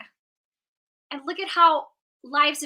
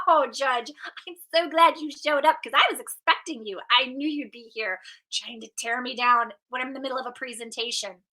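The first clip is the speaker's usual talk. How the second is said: playful teasing. Shown as a demonstration. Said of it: "You can have some fun with this too".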